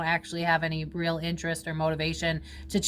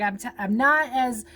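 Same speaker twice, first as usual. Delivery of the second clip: ordinary delivery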